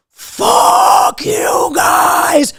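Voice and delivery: shouting curses at wasps; screaming at wasps. Retold or imitated. Yelling at the wasps, mock furious. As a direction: yell it at the swarm. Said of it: "I'm screaming every obscenity".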